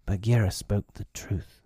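out of breath from running; panting. A narrator's reading. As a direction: pant the words out. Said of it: "he panted".

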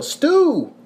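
high-pitched imitation of girls calling; mock girls' yell. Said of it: "we hear two girls yell".

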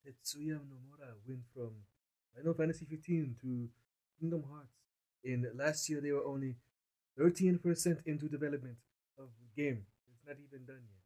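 put-on Jamaican accent. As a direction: talk in a mock Jamaican accent. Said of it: "I'm talking in my Jamaican accent".

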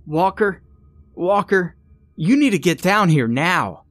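high, urgent shrieking call; shrieked. A narrator's reading. Evan calling his friend down to the basement, shrieked. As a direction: shriek for help, pitched well above your voice. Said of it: "when Evan shrieked".

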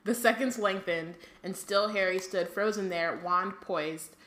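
reading the book aloud; measured narration of the passage; story reading. Acted.

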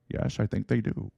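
amateur film-captain impersonation; a hint of the submarine captain; Sean Connery. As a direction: lightly imitate a Scottish movie star. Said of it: "That's my Sean Connery".

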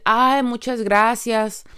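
slow gracious thanks. Shown as a demonstration.

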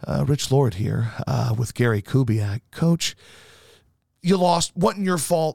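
slow, subdued losing-night voice; mock glum reporter. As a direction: mope through it gently. Reporter after Texans lose.

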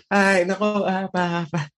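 put-on Filipino-accented apology, English sorry said haltingly and a little high; Pinoy accent. Apologizing to angry college players in a thick Pinoy accent. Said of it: "Like, sorry was a hard word".

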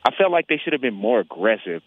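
speaking through a face mask; muffled voice behind a mask. Real, not acted. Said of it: "forgive me if I sound a little muffled".

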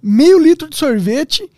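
slow, stunned listing; amazed recap. Acted. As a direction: savour each item in disbelief.

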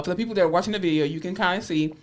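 speaking around a retainer; lisping slightly with a retainer; wearing a retainer. Real, not acted. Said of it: "I have my retainer in".

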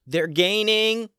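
high, loud and slow yell back down the tunnel. Acted. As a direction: call out so the front of the group hears. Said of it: "she yelled loud enough for Tim".

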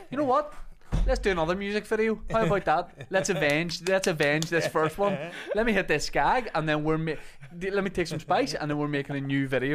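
loud, high and manic; hyped-up junkie pitch. Retold or imitated. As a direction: pitch it like you're wired. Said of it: "go back to that artist and say".

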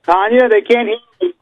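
high, annoyed aside to his assistant; frustrated Ric Flair. Acted. Ric Flair griping to Tanya that the caller can't hear. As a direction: grumble that the fan can't hear. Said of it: "Sam, you be Ric Flair".

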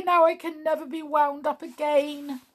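high, thin toy clown voice; Clockwork Clown voice. Acted. Clown answering Tiptoe from his bed, high toy voice. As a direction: play the sad little clockwork clown.

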